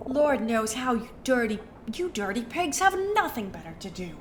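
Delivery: lightly voiced snooty rich lady; Jennifer Coolidge voice. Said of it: "Vida sound like Jennifer Coolidge".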